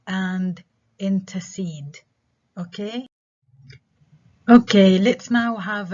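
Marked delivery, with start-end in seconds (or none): 1.0-2.0 intercede stressed on CEDE; stress last syllable. Shown as a demonstration. Teacher's last example, intercede with final stress. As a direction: land on the end of intercede. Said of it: "stress on the last syllable".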